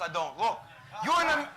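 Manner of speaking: ordinary talk, nothing marked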